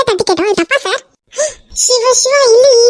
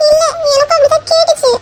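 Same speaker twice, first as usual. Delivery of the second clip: laughing; 7 semitones higher than usual. Acted. Teasing shy laugh with lover.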